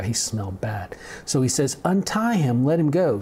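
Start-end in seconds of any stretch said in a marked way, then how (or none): 1.8-3.2 calling from a distance. Retold or imitated. Jesus keeps his distance from the smelly man, calling out. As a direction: call it out from well back. Jesus wasn't gonna get that close.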